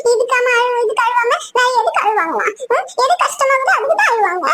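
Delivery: wailed, sobbing protest; acted crying. Mother answers why she is weeping, tearful protest. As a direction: cry the words out, pitch lurching. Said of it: "எதுக்குமா அழுதுன்னு இருக்கிறீங்க".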